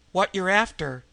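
mock her suspicion; sudden mockery. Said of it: "with sudden mockery".

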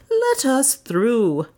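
Leonard insisting. A narrator's reading. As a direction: press the request a second time, deliberately. Leonard repeats request.

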